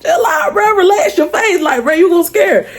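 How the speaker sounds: high, urgent hushed warning; cousins warning. Retold or imitated. Cousins warning him to stop smiling so hard, urgent. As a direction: nudge him to calm down. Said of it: "trying to tell him".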